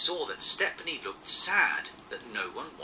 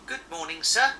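polite; 6 dB louder than usual. Acted. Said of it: "said Thomas politely".

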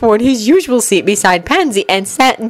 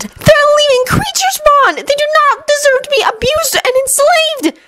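hardened, heated. Acted. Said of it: "Hermione's eyes hardened".

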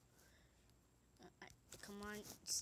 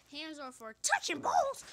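amused loud reading; 6 semitones higher, 12 dB louder than usual. Real, not acted. Reads funny kid answer aloud.

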